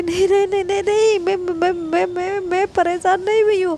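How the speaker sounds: flustered denial. Retold or imitated. Anu hurriedly denying to the upset girl, flustered and fast. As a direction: hurry to deny it, stumbling over the words. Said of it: "कहती".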